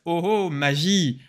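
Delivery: playful, drawn-out "magic reveal"; mock amazement. Tutorial host unveils a ready-made button to viewers, mock amazement. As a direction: stretch it out like a magician's mock surprise. Mock wonder at a software trick.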